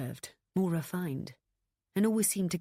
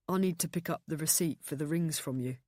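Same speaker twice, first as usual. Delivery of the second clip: calm. A narrator's reading. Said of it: "he said calmly".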